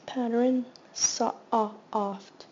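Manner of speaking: segment by segment; sounding out soft. Shown as a demonstration. Teacher sounding out a word for students, segmented. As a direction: split soft into sa, ah, oft. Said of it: "Short O sound".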